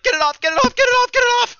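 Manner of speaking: shrieking high panic, get it off; phobic panic. Acted. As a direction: scream it off your skin in terror. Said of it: "he's, he's like".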